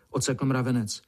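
ordinary delivery, nothing marked

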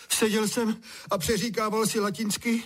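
high, wailing complaint; lamenting. A narrator's reading. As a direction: bewail it like a shocked child. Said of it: "bědoval Honza".

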